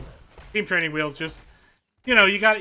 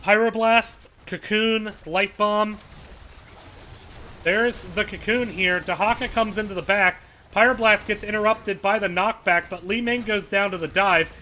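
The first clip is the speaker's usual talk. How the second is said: rising hype, fast and loud calls; excited play-by-play; 4 semitones higher, 3 dB louder than usual. Real, not acted. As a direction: call the team fight at full excitement. Excited casting of team fight.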